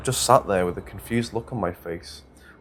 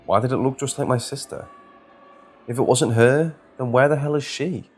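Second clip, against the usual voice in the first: panicked; 5 semitones higher, 4 dB louder than usual. A narrator's reading. Panicked inner questions.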